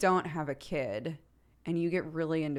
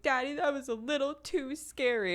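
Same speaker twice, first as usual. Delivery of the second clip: put-on little kid voice; 9 semitones higher than usual. Toddler repeats the phrase.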